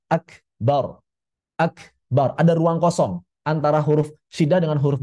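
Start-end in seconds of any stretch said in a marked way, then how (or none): 0.1-2.4 akbar with an overlong stop after k; exaggerated pause inside akbar. Shown as a demonstration. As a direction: overdo the gap in akbar. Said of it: "contoh lebaynya".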